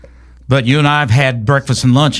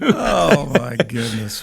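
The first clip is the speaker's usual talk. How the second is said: surprised; 6 dB quieter, much slower than usual. Real, not acted. Host reacting to the cat story, surprised. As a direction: caught off guard by the punchline.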